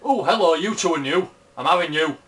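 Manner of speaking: bright, eager hello to new monsters; excited greeting. Real, not acted. Gamer spotting two new monsters, excited.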